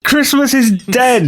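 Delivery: slow, high, booming proclamation; sinister boom. Acted. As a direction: declare it slowly, like a doom. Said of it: "at the top of your voice".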